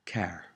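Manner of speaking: car with the final R sounded. Shown as a demonstration. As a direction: say car, pronouncing its R at the end. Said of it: "The R is always sounded out".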